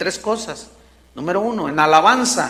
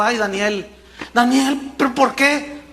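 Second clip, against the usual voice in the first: grieving king; 4 semitones higher than usual. Acted. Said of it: "se afligió el corazón".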